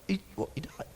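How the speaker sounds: very soft, faltering retold disbelief; deeply upset. Comic hearing his hero has died, hushed mock upset. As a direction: barely get the words out. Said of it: "deeply upset".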